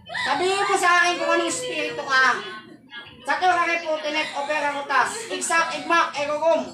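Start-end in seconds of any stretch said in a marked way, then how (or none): 3.3-6.6 rhythmic chanted spell words rising to a shout; incantation. Acted. Healer chanting a spell over the possessed man, building louder.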